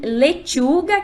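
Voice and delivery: lechuga slow with a crisp ch; Spanish CH. Shown as a demonstration. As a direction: say lechuga slowly, dry ch. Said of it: "aparece o dígrafo che".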